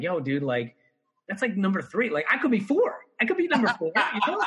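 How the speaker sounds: high, laughing cheeky boast; joking brag to coworker. Retold or imitated. Bartender jokes to coworker he could be next, laughing. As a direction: crack up while daring yourself. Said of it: "I was like".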